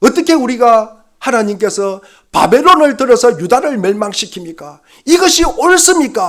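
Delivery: loud, high, impassioned outcry.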